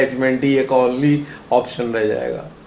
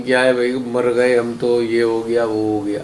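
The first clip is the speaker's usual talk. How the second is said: mock weary complaint; 4 semitones lower than usual. Devotee feeling all the world's troubles, mock weary groaning. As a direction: imitate someone worn out by endless troubles. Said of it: "दुनिया भर की आफतें महसूस हो रही हैं".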